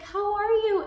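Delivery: very high, loud sing-song greeting; bubbly client greeting. Retold or imitated. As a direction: gush it out like an overly cheerful acquaintance. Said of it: "She was like".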